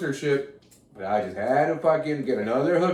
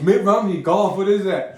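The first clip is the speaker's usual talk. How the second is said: shouted, higher and louder, hammed-up confusion; mock frantic shout; mock panicked yell; 5 semitones higher, 5 dB louder than usual. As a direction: yell it like a baffled victim.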